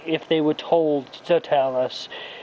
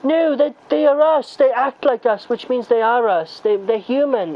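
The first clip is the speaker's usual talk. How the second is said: high, louder earnest hippie; mocking hippie; 9 semitones higher, 4 dB louder than usual. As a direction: plead like a preachy hippie. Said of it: "hippies start saying".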